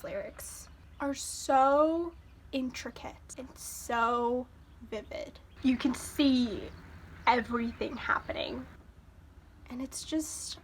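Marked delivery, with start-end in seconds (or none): 2.5-5.4 soft, slow voiceless awe; awed whisper. Real, not acted. In awe of the lyrics. 7.3-10.6 awed whisper. Real, not acted. In awe of the lyrics.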